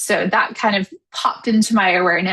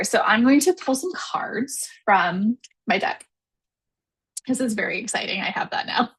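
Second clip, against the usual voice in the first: whispering. Real, not acted. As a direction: hush it, barely voiced. Whispering while pulling tarot cards.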